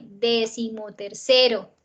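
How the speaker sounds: "decimotercero" slowly, leaning on CE; teacher drawing out "decimotercero" to show CE stressed. Shown as a demonstration. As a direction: put the force on the CE of decimotercero. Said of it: "El acento es acá".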